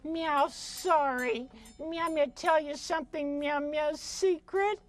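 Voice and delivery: meowing cat-puppet voice; pussycat puppet. Acted. Cat calling a friend to come, meowing cat voice. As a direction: talk as a little cat, meows between the words.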